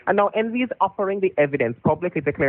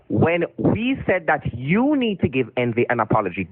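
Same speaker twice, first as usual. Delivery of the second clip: slow, deliberate condescending delivery; over enunciating; 4 semitones lower, slower than usual. Shown as a demonstration. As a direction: spell it out slowly for a drunk. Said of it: "repeat it again slowly, a little more slowly for you".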